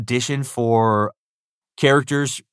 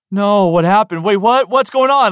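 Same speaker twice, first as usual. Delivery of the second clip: much higher and louder, baffled and alarmed; confused; 10 semitones higher, 7 dB louder than usual. Retold or imitated. Actor finding his voice replaced in the footage, baffled and loud. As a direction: blurt out panicked questions, lost. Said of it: "I was so confused".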